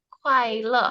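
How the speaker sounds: Kuai le with a downward fall. Shown as a demonstration. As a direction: model Kuai le, pitch dropping to the end. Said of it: "nadanya itu turun ke bawah". (Kuai le dengan nada turun ke bawah)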